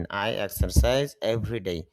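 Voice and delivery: drawn out, word by word English example; very slow model phrase. Shown as a demonstration. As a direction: stretch it out for the learner. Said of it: "teacher models sentence". (খুব ধীরে টেনে টেনে উদাহরণ)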